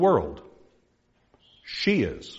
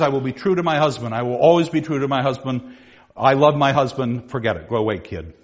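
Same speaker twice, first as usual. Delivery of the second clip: brisk dismissal; 2 semitones lower, faster than usual. Acted. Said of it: "she says".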